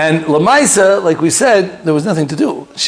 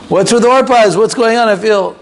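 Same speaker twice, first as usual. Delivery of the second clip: anxious pleading; 6 semitones higher than usual. Retold or imitated. Mother asking the Baba Sali about her son, anxiously high. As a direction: press the question with rising worry.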